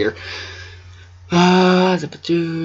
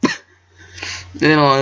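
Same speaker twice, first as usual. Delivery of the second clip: cough; much slower than usual. Real, not acted. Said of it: "I can".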